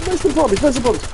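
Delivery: high mock Birmingham accent; hammed-up Brummie asking twice; a lightly mocked Birmingham local. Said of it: "that's what they get greeted with".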